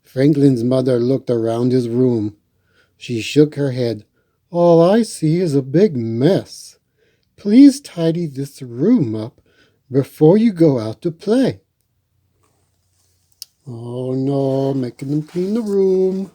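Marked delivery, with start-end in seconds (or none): 4.5-11.6 mother's voice. Acted. Mother scolding in story.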